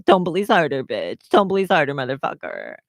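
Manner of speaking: lightly put-on cartoon villainess taunt; Harley Quinn. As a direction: punch each order, then drop the name-calling. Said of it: "Do I sound like Harley yet?".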